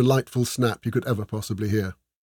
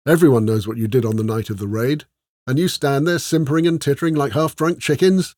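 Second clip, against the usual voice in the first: stern scolding; 3 semitones higher, 3 dB louder than usual. Acted. Scolding her hired crew.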